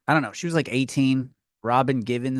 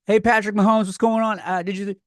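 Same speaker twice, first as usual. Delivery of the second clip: higher, breezy jock chatter; friendly athlete voice; 5 semitones higher than usual. Retold or imitated. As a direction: play a chummy easygoing star player. Mimicking greeting a star player.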